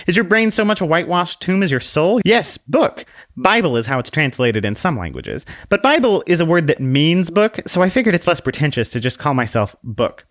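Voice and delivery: high, polite little lady; curtsy it out sweetly, voice up high; prim little book voice. Acted. Book introduces herself to the man with a high dainty bow. Book explains her name.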